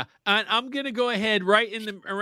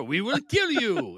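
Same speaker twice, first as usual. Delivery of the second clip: the same clumsy fake French accent again, sounding more German; bad French accent. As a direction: deliver the kidnapper threat in a poorly faked French accent. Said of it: "I can't do French either".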